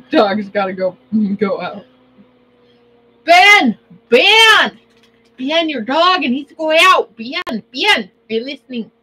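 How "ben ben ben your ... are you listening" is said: loud, high yell for Ben; loud, high call to Ben about his dog. Acted. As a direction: shout across the house to get Ben's attention.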